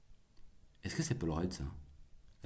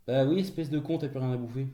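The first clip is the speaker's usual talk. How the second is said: raised, higher scolding of a pet; mock-insulting the cat; 5 semitones higher than usual. Real, not acted. Owner to cat with an empty bowl, mock-insulting. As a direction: tell the cat off with playful insults. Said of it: "Oui, je l'insulte, mon chat".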